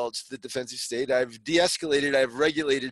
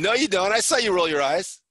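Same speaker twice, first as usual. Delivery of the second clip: louder, higher accusation; accusing retort; 4 semitones higher, 5 dB louder than usual. Acted. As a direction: hit back with the proof. Acted quarrel, accusing partner.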